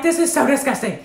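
high-pitched mock mom outrage; mad fussing. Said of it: "when I'm mad, I'm loud".

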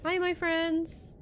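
high, stretched-out hello; sing-song greeting to creatures; playful greeting. Pretend. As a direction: call out to little friends, slow and high.

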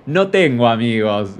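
slow, put-on "No tengo amigos"; mocking pitiful girl. Vlogger mimics the girl's reply, slow and self-pitying. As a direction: drag it out like a self-pitying victim. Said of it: "¿Y qué me responde ella?".

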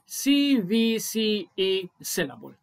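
سي في سي إي spelt out slowly; letter by letter; slow spelling. Shown as a demonstration. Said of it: "بيسمى إيه". (ببطء حرف حرف)

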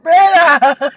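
loud, high strained cry; hoarse shout. Real, not acted. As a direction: yell it through a ruined voice.

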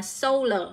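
solar stressed on SO with an "oh" vowel; SO-lar, clear citation form; first-syllable stress. Shown as a demonstration. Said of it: "nhấn vào âm một".

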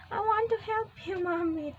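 put-on quoting child. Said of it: "Sabi niya".

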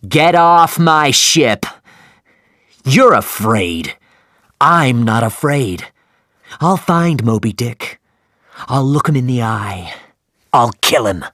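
loud, slow furious shouting; a captain roaring with fury; angry shout. Acted. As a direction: drive him off the ship with rage. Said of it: "and shouted at him".

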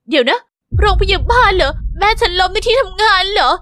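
a sudden rush of worry; shocked alarm. Acted. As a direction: caught off guard by bad news. Phone call says mom hospitalised.

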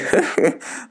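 a short airy cackle; quick wheezy chuckle; breathy mock laugh. A narrator's reading. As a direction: laugh it off, amused. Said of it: "und lachte".

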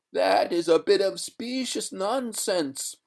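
high, slow ghostly rebuke; haughty watery spectre, stretched and high; indignant ghost. A narrator's reading. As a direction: draw out the scorn in a high spectral voice. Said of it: "throwing a quart of indignation".

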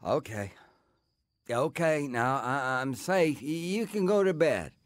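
put-on slightly drunk, words a bit loose; a teen who's had a few drinks; tipsy. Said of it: "I can hear it".

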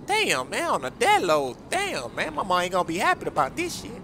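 A rapper impression. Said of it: "the rapper, baby".

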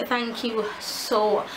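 breathless, slow words; winded, catching breath between words. Real, not acted. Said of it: "I'm a little bit out of breath".

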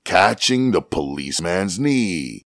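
ordinary delivery

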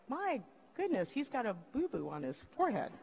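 lightly voiced cooing mom, soft; mommy voice. Mom of little kids spotting a boo-boo, lightly cooing. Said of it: "my mommy eyes said".

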